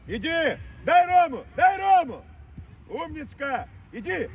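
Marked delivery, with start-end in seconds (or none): 0.8-2.2 higher, insistent repeated call. Real, not acted. Coach demanding a pass to Roma, insistent calling out. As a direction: urge the pass from the touchline.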